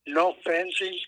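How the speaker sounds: emphatic loud. Real, not acted. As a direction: insist hard, raising the voice. Neighbour insisting loudly.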